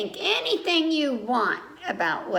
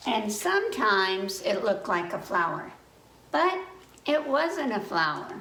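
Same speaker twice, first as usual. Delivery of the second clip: put-on reading to children. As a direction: read it like story time for little kids. Reading a picture book aloud.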